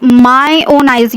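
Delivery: weight placed on "my own"; emphasizing. Shown as a demonstration. Teacher showing students emphasis, stress on my own. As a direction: press on "my own" to insist. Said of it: "You are emphasizing".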